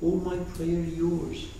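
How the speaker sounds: lightly voiced humble worshipper; humble offering. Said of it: "He will say".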